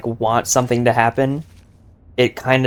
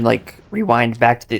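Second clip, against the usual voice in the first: voice crack. Real, not acted. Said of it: "did I have a mini voice crack?".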